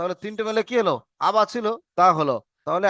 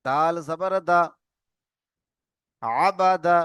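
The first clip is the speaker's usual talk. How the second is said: slow spelling drill; slower than usual. Shown as a demonstration. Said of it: "আপনারা সবাই আমার সাথে সাথে বলবেন".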